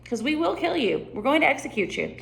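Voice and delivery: quick threatening reading, fast; mock menace; menacing turn. Shown as a demonstration. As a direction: switch to a threat. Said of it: "changing your face to".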